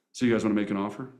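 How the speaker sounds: rattled-off fast offer question; rushed pitch. Retold or imitated. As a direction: hurry through it like a pushy agent. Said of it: "they're like".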